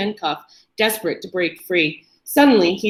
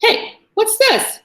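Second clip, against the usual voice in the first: higher, slow, amused character voice; amused male voice; 13 semitones higher, 3 dB louder, slower than usual. A narrator's reading. Chained man asking his captor, amused. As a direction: toy with the question, half-laughing.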